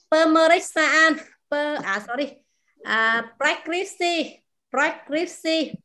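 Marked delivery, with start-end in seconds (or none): 3.4-5.7 preskripsi very slowly, puffing the p up front; slow demo. Shown as a demonstration. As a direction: start preskripsi with a breathy p, then rec. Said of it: "bật hơi đằng trước".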